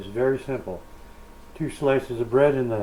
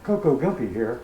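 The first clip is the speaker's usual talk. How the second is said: muffled behind a mask; words dampened by a face mask; through a face mask. Real, not acted. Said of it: "Please excuse the mask".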